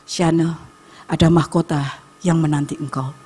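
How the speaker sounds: low, softened divine promise; God speaking personally. Retold or imitated. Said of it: "bicara sama saya".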